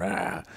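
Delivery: imitated "rah" of teenage rage; a contained roar, acting out a freak-out; mock angry growl. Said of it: "freaking out, fifteen-year-old testosterone".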